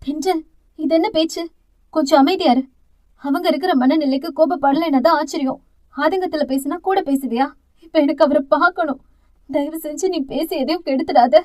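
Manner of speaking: hurt, pleading voice; pained voice. Acted. Thalir quieting her sister, wounded voice. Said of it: "குரல் அத்தனை ரணமாய் ஒலித்தது".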